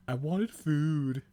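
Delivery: slow, high drawn-out whine; whiny Buffy. A narrator's reading. Buffy whining at the kitchen for food, slow whine. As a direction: stretch it out like a sulky kid. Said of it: "Buffy whined".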